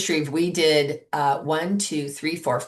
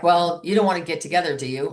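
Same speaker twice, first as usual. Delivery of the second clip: unexcited invite. Shown as a demonstration. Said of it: "You can't ask that way".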